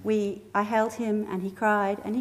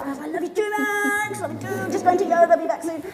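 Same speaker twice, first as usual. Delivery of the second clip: breezy reply; 8 semitones higher, 3 dB louder than usual. Retold or imitated. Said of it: "you know".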